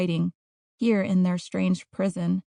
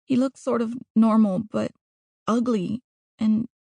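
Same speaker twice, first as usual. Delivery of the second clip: put-on higher-pitched girl, explaining herself earnestly; Natalia reciting her letter; 4 semitones higher, 4 dB louder than usual. Trapped girl recites her letter to Mom and Dad, defensive girl's voice.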